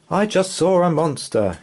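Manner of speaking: high, breathless excited dad; out of breath from running; gasping out the news; panting. Acted. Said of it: "he panted".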